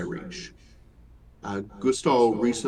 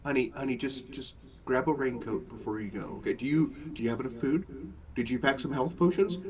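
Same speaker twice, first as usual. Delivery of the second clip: soft parent voice; 6 dB quieter, faster than usual. Acted. GM voicing fussing parent.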